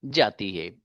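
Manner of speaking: deliberate singsong conjugation recitation; teacher modelling a pattern phrase by phrase; measured drill reading. Shown as a demonstration. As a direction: say each English phrase, then its translation, evenly. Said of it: "इस अंदाज से आप conjugation पढ़ सकते हैं".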